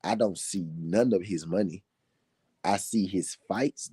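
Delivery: slowed-down, deliberate repeat with spaced phrases; measured, emphatic slow delivery; slow for emphasis. Shown as a demonstration. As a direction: spell it out slowly for the people in the back. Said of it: "I'm gonna say it slow for the people in the back".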